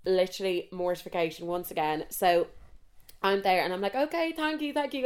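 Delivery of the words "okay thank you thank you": high, small polite voice; embarrassed thanks. Acted. Mortified customer trying to get away, in a high polite voice. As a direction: squeak out a hasty thank-you. Hurrying to end the embarrassing exchange.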